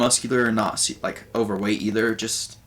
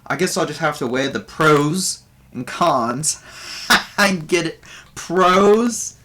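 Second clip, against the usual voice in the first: raised, louder comic bard voice; bard doing stand-up; 4 semitones higher, 3 dB louder than usual. Acted. Game master voices the bard Buvor greeting the audience, higher and louder. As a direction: Buvor working the crowd as a nervous comedian. Bard telling stage jokes.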